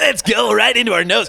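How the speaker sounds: cheesy DJ hype voice.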